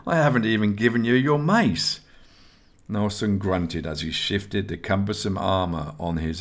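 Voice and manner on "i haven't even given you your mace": higher-pitched, teasing relish; grinning. A narrator's reading. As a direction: lift the voice into a grinning tease. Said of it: "grinning at him".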